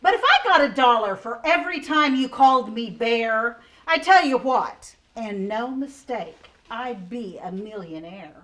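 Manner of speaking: a grumbling little koala reading; koala's grumpy rhyme. Acted. Reading the koala's rhyming lines.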